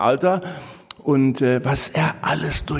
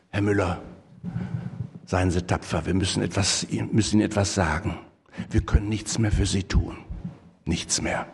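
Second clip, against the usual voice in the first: grave news; 5 semitones lower than usual. Retold or imitated. Doctor delivers death news.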